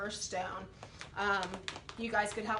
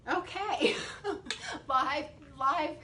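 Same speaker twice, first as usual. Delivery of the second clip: exasperated; 5 semitones higher, 3 dB louder, slower than usual. Real, not acted. Lid won't come off.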